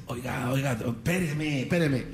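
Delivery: hushed interruption. Acted. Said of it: "se le acerca y le dice".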